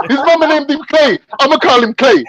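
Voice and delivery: put-on high old man voice, Jewish accent. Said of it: "He goes".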